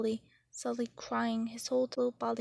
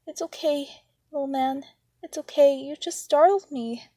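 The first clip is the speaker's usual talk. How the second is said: startled reassurance; 4 semitones higher, 8 dB louder than usual. Acted. Calming the frightened little brother.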